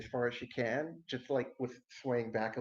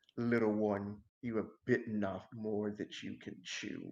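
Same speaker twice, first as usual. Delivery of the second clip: voice deepening, growing lower; 4 semitones lower than usual. Telling a story, speaking as her character to the little one, voice deepening. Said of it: "her voice starts to deepen".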